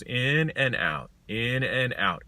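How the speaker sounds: slow, drawn-out "in and out"; slow breathing rhythm. Shown as a demonstration. Yoga teacher modelling breath for rideshare drivers, slow breathing rhythm. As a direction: pace the words like steady breaths.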